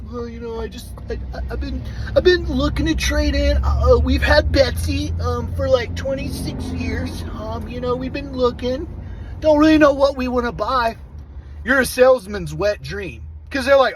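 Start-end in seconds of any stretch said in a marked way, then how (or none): 0.0-11.0 softly voiced shy buyer, higher and hesitant; timid tire-kicker. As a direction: play the unsure customer who doesn't know what he wants. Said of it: "the quiet, timid type kicking tires".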